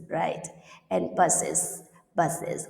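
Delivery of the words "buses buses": "buses" with ES pronounced IZ; IZ ending. Shown as a demonstration. Teacher explains E S to students, IZ ending on "buses". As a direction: say "buses" in two syllables, IZ at the end. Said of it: "Pronounce is".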